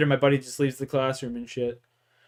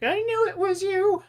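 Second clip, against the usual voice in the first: suspicious accuser. Retold or imitated. The one person who cared.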